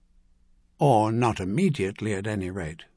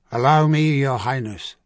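put-on Corisian accent; 5 dB louder than usual. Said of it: "in a pronounced Corisian accent".

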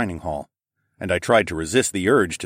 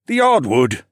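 louder, higher groan of dismay; 5 semitones higher, 6 dB louder, slower than usual. A narrator's reading. Gerald groans over the dining hall's hardwood, dismayed. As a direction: lament it with a groan. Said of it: "he groaned".

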